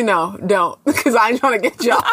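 laughing while backing out; giggling through the words. Real, not acted. Laughing backtrack.

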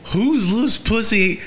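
high, drawn-out mock horror; hammed-up disgusted disbelief; horrified outrage. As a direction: stretch it out, aghast and high-pitched. Acted horror at finding tampon.

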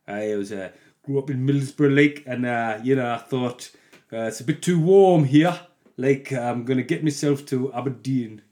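hesitant attempt at a Middlesbrough accent; bad Middlesbrough accent. Voicing the letter writer from Middlesbrough, bad Middlesbrough accent. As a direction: put on a patchy Middlesbrough accent. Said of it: "That was a bad accent".

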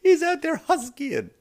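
high, slow awed line; mock nature narration. Comic marvelling at the husky man, high and slow. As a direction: savour it like a wildlife show. Comic repeats his own punchline.

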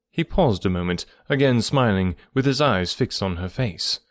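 measured classic-novel narration; story narration. A narrator's reading. Narrator reading Emma's final chapters to listeners, measured storytelling. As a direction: read the novel aloud with deliberate pauses.

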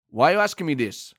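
mildly angry German manager; irritated impression of a football boss; Thomas Frank. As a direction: push back in a comic German accent. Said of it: "Oh, you're angry".

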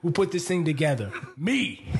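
amused attempt at an actor's intense line; half-laughing tough-guy impression; lightly voiced intense movie star; Denzel. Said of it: "like, my Denzel voice".

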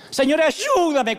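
high, slow, mock desperate plea; a needy believer begging God; pleading prayer. Preacher imitating a believer pleading for help.

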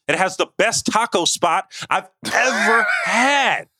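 slow, laughing through the words; delighted laugh while raving about food; laughing gush. Real, not acted. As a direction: break into a laugh mid-praise. Gushing about taco spot.

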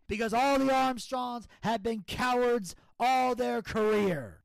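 loud mock heel taunt; Ivan promo impression. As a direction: sneer it like a heel. Impersonating Ivan on the mic.

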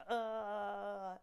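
drawn-out imitated zombie moan; mock undead "uhhh"; zombie groan. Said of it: "they're like".

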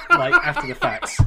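high, loud laugh through the words; laughing it off, half bitter; rueful laugh. Real, not acted. Laughing at depressing show.

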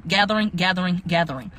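"gathering" repeated deliberately, each one separate; emphatic repetition. Retold or imitated. Recapping the witness's insistence on the word, emphatic "gathering". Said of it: "put a big emphasis on the fact".

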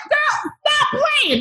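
high, drawn-out squeal of disbelief; flustered disbelief. Retold or imitated. Telling the host about meeting a famous singer, flustered disbelief. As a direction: retell a flustered, high-pitched protest. Retelling flustered reply to star's praise.

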